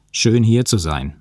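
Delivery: spöttisch gedehnt, Betonung auf hier; sarkastisch. Acted. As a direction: ironisch höflich, lauter. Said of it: "meinte ich sarkastisch". (sarkastisch zum Professor)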